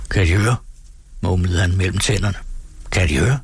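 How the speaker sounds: steady storytelling read for the radio; story narration. A narrator's reading. Narrator reading Turgenev to radio listeners, measured storytelling. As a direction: read the tale aloud to listeners, evenly.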